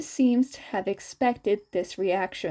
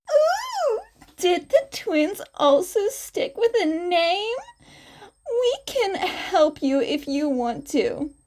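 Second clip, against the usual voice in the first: higher, playful teacher voice; higher playful woman's voice; flirty Midnight; 7 semitones higher, 3 dB louder than usual. Acted. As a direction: coax the students sweetly.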